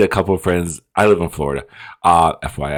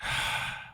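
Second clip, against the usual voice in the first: exasperated sigh; 14 dB quieter than usual. Real, not acted. Exasperated with the film character.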